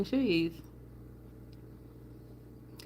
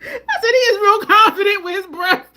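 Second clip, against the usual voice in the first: high, loud, slowed and shaking with laughter; laughing through the words; 11 semitones higher, 9 dB louder than usual. Retold or imitated. Teasing viewers about his breath, laughing. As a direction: crack up while saying it. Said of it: "I said".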